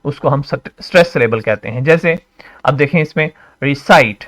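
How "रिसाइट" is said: रिसाइट with a drawn-out, emphasized साइट; stressed syllable. Shown as a demonstration. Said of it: "आई को stress दे रहे हैं आप".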